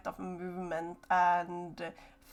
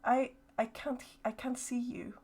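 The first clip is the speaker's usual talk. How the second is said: stuttering distant voice; 2 semitones higher than usual. Acted. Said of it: "the voice again".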